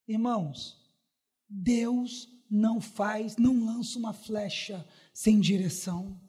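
soft, low, slow solemn preaching; quiet, measured assurance to the congregation; hushed preaching. Real, not acted. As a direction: drop low and let each phrase sink in.

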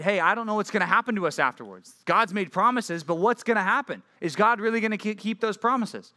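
a touch of rising worry, acted out; mildly afraid. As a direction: voice the doubts of anxious people. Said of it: "because they're afraid".

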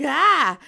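mock startled cry; startled yelp. Teller recalls spotting the snake, startled yelp.

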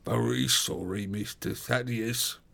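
slow, unyielding gruff voice; inexorable porter. A narrator's reading. Porter turning down his master's brother, gruff and inexorable. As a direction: refuse without budging. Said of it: "said the porter inexorably".

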